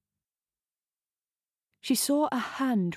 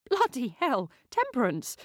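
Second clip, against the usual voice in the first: a sharp, higher cry of annoyance at the runaway dog; exasperated outburst at the fleeing pug; exasperated curse; 5 semitones higher than usual. Acted. Jess's pug bolts from her grip.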